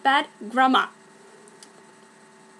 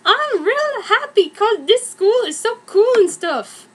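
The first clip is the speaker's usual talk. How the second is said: put-on gushing valley girl; 8 semitones higher, 4 dB louder than usual. Narrator gushes in fic.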